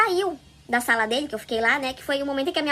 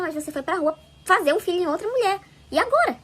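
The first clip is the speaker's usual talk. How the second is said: indignant retelling, rising higher and louder; retold confrontation; 4 semitones higher, 4 dB louder than usual. Wife confronting her cheating husband, retold indignation. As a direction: build to a challenging, higher-pitched question.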